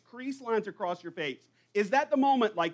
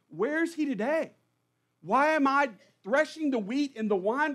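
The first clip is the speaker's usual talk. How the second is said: higher, plaintive whine at God; a bitter, higher-pitched lament at God; grumbling complaint; 4 semitones higher, 3 dB louder than usual. Retold or imitated. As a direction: grumble and accuse heaven, voice pitched up in protest. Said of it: "Gideon is grumbling while he's doing his grunt work".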